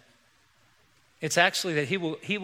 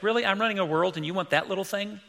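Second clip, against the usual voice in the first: irritated god; 4 semitones higher, faster than usual. Retold or imitated. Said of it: "God's gonna be irritated".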